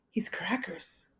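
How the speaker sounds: breathy secret whisper. A narrator's reading. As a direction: whisper it so Billy can't hear. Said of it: "Alan whispered".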